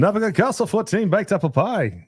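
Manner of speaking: slow, lightly put-on Irish accent; a hint of an Irish accent, on request. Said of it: "say that again in your Irish accent".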